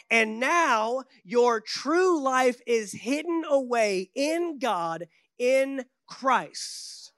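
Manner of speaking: very slow solemn reading; scripture reading. Acted. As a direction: drag the verse out slowly. Reading Passion Translation.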